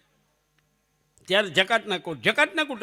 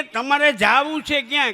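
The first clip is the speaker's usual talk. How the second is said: louder, exasperated demand; exasperated question; 4 semitones higher, 6 dB louder than usual. Retold or imitated. Fed-up conductor loudly asks the traveller where he wants to go. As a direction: push the question in frustration.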